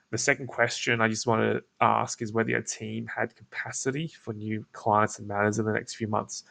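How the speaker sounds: relaxed creaky voice, tone kept down; croaky, laid back. Shown as a demonstration. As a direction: let the voice creak, casual and flat. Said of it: "it just sounds more laid back".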